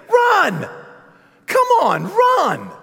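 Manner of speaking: high loud urging shout "Run!"; shouting at screen. Retold or imitated. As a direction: yell at him to run. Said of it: "you're thinking".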